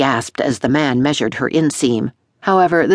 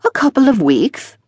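fussy dressmaker; 10 semitones higher, 3 dB louder than usual. A narrator's reading. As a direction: play the pompous tailor fawning over his customers. Dressmaker voiced.

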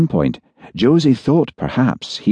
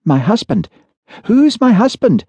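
much higher, louder eager question; 4 dB louder than usual. A narrator's reading. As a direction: blurt it out, eager and hopeful. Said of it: "asked Josie eagerly".

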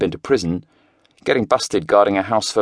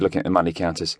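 normal talking voice

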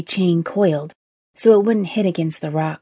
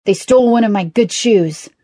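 higher, aggrieved complaint; put-out, indignant gripe; grumbling; 3 semitones higher, 4 dB louder than usual. A narrator's reading. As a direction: whine about an injustice. Grumbling man complains about rats.

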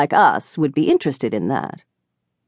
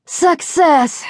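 triumphant; 11 semitones higher than usual. A narrator's reading. Charlotte triumphant with crackers.

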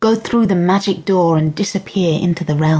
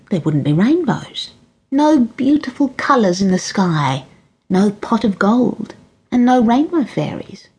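a hint of an old fairy queen enchanting a child; mild granny voice, hushed on Pixies and Jessie; lightly voiced kindly granny. Granny explains rain to Jessie.

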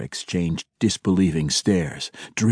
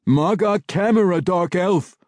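much higher, shouted urgently; shouting; 9 semitones higher than usual. A narrator's reading. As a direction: yell at him to come away. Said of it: "Belwar shouted at him".

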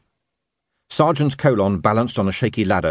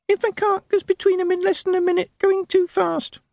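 tiny parroting voice. Acted. Imp reciting rules to the sergeant, tiny squeaky voice. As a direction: recite the lesson like a tiny pupil. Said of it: "the little voice parroted".

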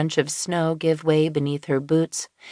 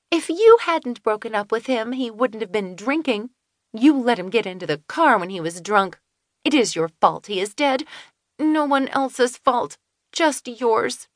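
higher, blaming voice; bitter accusation; 5 semitones higher than usual. A narrator's reading. Finley blames Kelsey for her brother's death, bitter. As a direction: lay all the blame on her.

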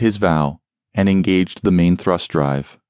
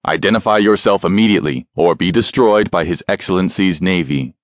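deep booming voice. Acted. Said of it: "a deep voice boomed out of the speaker".

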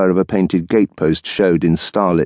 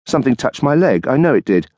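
higher, a touch of alarm; startled wife; 6 semitones higher than usual. Acted. Wife in the dark hall, mildly alarmed. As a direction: insist something touched her.

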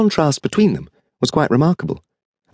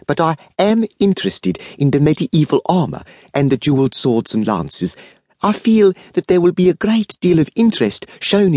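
a hint of a brisk older businesswoman, pitched higher; lightly voiced South African woman; 3 semitones higher than usual. Mrs Besborough telling Mannering what she'll buy, lightly voiced and brisk. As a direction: play her lightly as a confident buyer.

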